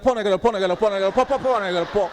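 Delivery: brusque teacher counting out cane strokes; stern teacher lashing out; harsh teacher. Retold or imitated. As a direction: bark the count at the poor kid. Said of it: "he's like".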